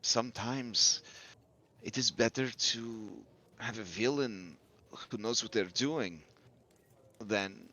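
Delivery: lightly voiced, measured game character; Muriel. Innkeeper-style counsel to three concerned listeners, lightly voiced and grave. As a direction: weigh the words soberly, in character. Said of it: "and then Muriel says".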